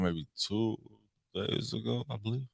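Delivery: ordinary delivery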